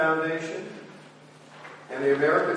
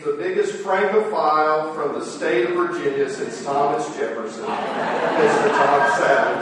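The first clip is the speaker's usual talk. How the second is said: grand announcer build-up; 6 dB louder than usual. Real, not acted. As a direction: announce him to the room with a flourish. Introducing the moderator to audience.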